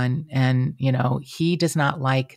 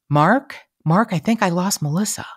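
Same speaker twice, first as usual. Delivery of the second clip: calling out; 5 semitones higher than usual. Retold or imitated. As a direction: retell a puzzled detective calling out. Detective calling out on Zoom.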